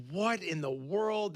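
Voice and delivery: slow, bewildered; drawn-out puzzled question; baffled. Retold or imitated. Seeing anchovies on pizza, slowly bewildered. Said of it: "I'm like".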